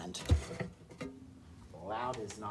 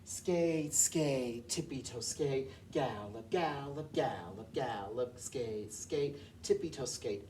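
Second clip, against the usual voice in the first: spoken rhythm chant in steady beats; rhythm saying; slower than usual. Shown as a demonstration. Music teacher showing a class how to speak the rhythm, rhythmic chant. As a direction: say the movement words in time. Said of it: "by just saying".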